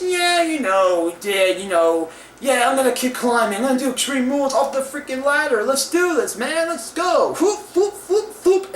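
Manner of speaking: imitating a psyched wrestler shouting whoop whoop; hyped-up wrestler. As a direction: play a cocky wrestler hyping himself up, ending in whoops. Imitates Neville's hyped attitude.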